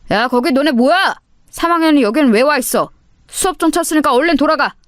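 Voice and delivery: stern homeroom teacher calling out; teacher scolding. Acted. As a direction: break it up from the door. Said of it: "담임 선생님의 목소리가".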